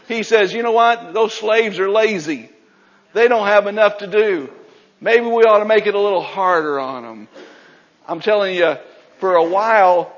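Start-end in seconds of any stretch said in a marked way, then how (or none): 0.5-7.3 scheming Pharaoh. Retold or imitated. Pharaoh voiced scheming harder.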